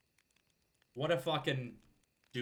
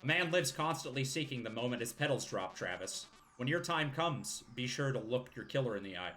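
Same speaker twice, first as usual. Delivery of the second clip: put-on old man voice. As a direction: play a gravelly elder. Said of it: "Doing that old man voice".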